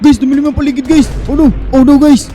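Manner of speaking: loud, startled oh-nos; alarmed. Pretend. Player tells viewers the monster teleported, alarmed. Enemy teleports, sky darkens.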